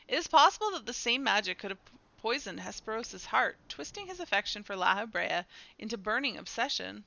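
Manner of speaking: measured, formal storytelling delivery; dramatic dialogue reading. Acted. Character explains Hesperos's corruption, measured dramatic reading. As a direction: read it as grave explanation between game characters.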